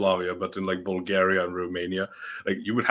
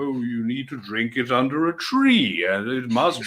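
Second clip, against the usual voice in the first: higher, drawn-up mocking quote; mock fussiness; 3 semitones higher than usual. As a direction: imitate a fussy beer snob. Mocking fussy beer drinkers.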